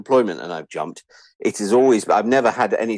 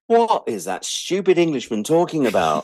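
mock bored listener; 8 semitones higher than usual. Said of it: "listening to this going".

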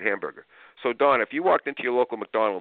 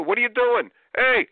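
high, loud scolding shout; yelling at kids; 6 dB louder than usual. Retold or imitated. Parent yelling at kids acting out. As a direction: snap at the kids. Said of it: "you're yelling at burgers".

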